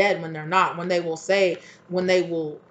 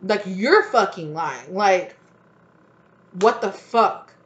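loud, high, slowed furious accusation; the partner calling out the liar, loud and furious; angry accusation; 3 semitones higher, 8 dB louder, slower than usual. Retold or imitated. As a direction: throw it back at them, loud. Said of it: "And they're like".

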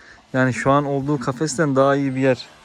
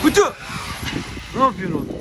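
shout at dog; 8 semitones higher, faster than usual. Real, not acted. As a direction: yell the dog's name. Yelling at a dog.

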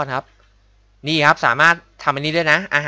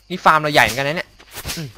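ordinary talk, nothing marked

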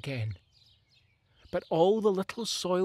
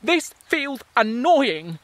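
mildly annoyed plant roots; 8 semitones higher, 8 dB louder, slower than usual. Acted. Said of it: "cry back".

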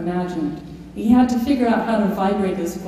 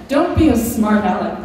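scolding; 2 semitones higher, 6 dB louder than usual. Retold or imitated. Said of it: "Pepperberg said, shaking her head".

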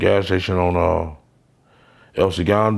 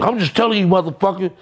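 father warning; 10 semitones higher, faster than usual. Retold or imitated. Father's reply, retold.

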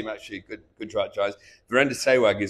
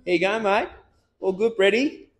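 friendly Australian mate voice pitched much higher; Brett Lee impression; 9 semitones higher than usual. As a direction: greet him like a cheerful Aussie teammate. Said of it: "my impression of him".

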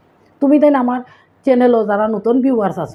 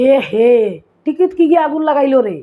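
teasing exclamation, louder and higher; mocking jibe; 4 semitones higher, 3 dB louder than usual. Sylheti speaker mocking a woman in a red sari, teasing. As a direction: needle her playfully about the red sari. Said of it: "ইখান না কইয়া কইবা".

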